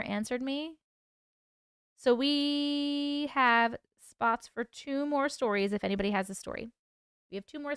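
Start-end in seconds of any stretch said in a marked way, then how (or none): 2.0-5.7 slow, drawn-out announcer lilt; sing-song announcement. Real, not acted. Host telling the chat about open story spots, slow sing-song. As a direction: stretch it like a teaser.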